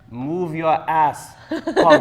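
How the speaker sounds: mock German friend barking a tease at his wife; German accent. Retelling a German friend teasing his wife, loud German accent. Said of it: "he would say in a German accent".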